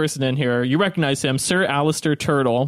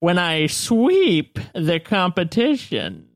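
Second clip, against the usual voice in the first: put-on crinkly old man; slower than usual. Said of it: "He'll come over and say".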